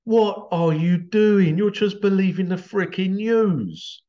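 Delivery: slow, loud, incredulous rebuke; exasperated. Retold or imitated. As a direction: scold them in disbelief. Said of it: "It's like".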